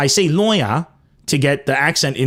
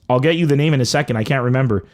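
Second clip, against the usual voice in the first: ordinary talk, nothing marked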